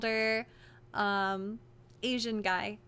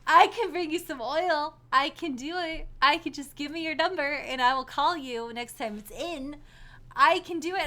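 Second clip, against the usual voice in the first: pushy creepy manager; 2 semitones higher than usual. Retold or imitated.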